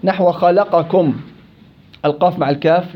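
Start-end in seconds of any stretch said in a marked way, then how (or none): 0.0-1.1 "خلقكم" read very slowly, the قاف and كاف held apart; slow demo reading. Shown as a demonstration. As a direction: sound out "خلقكم" slowly for the students. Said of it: "المتقاربان الكبير". (قراءة "خلقكم" ببطء شديد)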